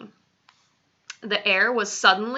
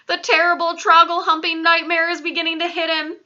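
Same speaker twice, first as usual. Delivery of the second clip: hushed giant's remark; 8 semitones higher, 5 dB louder than usual. A narrator's reading. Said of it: "the B F G whispered".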